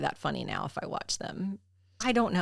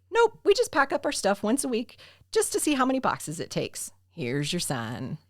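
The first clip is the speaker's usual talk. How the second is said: put-on Southern accent; 3 semitones higher than usual. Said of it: "hearing you do a Southern accent".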